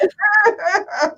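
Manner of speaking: high goofy noise with the tongue out; comic wordless noise, tongue stuck out. Retold or imitated. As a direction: imitate a silly pose with a squeal. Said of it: "I took my tongue out".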